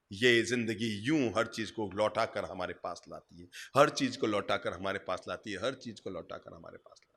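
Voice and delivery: low, soft, fading refrain; hushed reflection. Real, not acted. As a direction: let the moral sink in, dropping away to very soft. Solemn moral repeated, fading away. (धीमी, गहरी आवाज़ में चिंतन)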